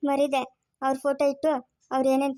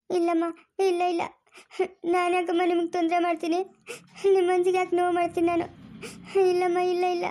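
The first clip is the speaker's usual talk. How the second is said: tearful denial, voice raised; crying; 4 semitones higher than usual. Acted. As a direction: protest through tears. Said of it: "ಹೋಗ್ಲಿ, ಅಳ್ಬೇಡ ಸುಮ್ನಿರು".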